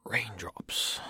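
hushed, half-whispered poem title; breathy title read. Acted. First take of poem title.

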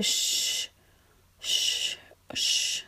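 soft unvoiced repeated shush; whispered shushing. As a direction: keep hushing them gently. Hushing a crying partner.

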